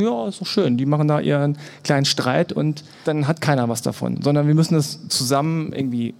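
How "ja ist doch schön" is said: higher, pleased and mocking; smug mock approval. The powerful gloating over the minorities' squabble, high and smug. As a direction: imitate gloating elites. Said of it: "die da oben sagen".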